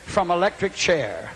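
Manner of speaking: slow dramatic headline announcement; headline reading. Retold or imitated. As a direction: read it out like big bold print, word by word. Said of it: "And the headline said".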